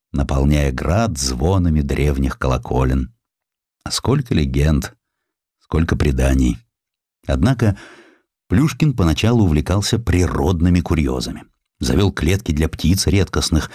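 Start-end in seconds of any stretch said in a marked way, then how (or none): none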